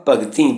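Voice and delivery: ਭਗਤੀ with nasal final ee; nasalised final vowel. Shown as a demonstration. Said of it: "ਭਗਤੀ ਦੀ ਬਿਹਾਰੀ ਉੱਪਰ ਬਿੰਦੀ ਦਾ ਉਚਾਰਨ". (ਭਗਤੀ ਦੀ ਬਿਹਾਰੀ ਨਾਸਕੀ ਬੋਲੋ)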